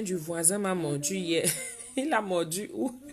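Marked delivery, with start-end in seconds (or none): 2.0-3.0 soft, giggling through the words; amused at the dog bite news; quietly laughing it out; laughing question. Real, not acted.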